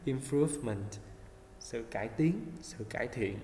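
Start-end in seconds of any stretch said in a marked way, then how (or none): 0.0-0.9 "improvement" with an audible final t; final t sounded. Shown as a demonstration. Teacher reminds of the last sound, "improvement" ending on clear t. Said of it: "Mình có âm t ở cuối ha".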